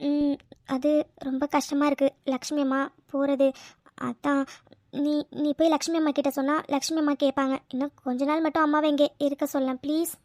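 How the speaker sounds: subdued, upset pleading; small, downcast voice asking a favour; sad plea. Acted. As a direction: beg gently, close to tears. Sad plea to keep mother longer.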